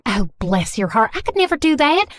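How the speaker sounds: Southern mom, gushing apology; Southern accent. Acted. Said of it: "speaking in a thick Southern accent".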